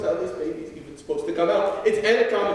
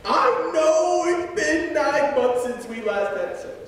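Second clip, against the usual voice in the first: mock wail; 4 semitones higher, slower than usual. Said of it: "Finland wails".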